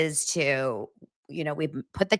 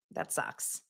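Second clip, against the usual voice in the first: whispered that sucks; hushed sympathy; 15 dB quieter than usual. Real, not acted. Host sympathizing with viewer Tiffany, whispered. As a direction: breathe it out softly.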